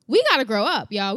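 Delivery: worked-up, punchy exhortation; excited yelling. Real, not acted. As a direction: get carried away and preach it loudly. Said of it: "I feel like I'm yelling".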